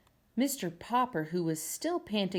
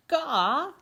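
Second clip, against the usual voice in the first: high, loud bird squawk; penguin squawk; 9 semitones higher, 6 dB louder than usual. Acted. Penguin squawking in the barber shop. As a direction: squawk it out sharply. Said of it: "said Captain".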